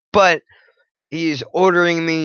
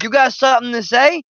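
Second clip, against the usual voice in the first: higher, quick mock challenge from an irritated judge; mock angry judge; 9 semitones higher, 3 dB louder, faster than usual. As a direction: toss it back like a judge daring a reply.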